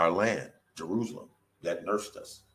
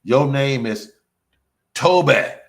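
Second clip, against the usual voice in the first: a hint of a barking overseer, louder; slave master; 7 dB louder, much slower than usual. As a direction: demand it like the master in Roots. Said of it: "the movie Roots".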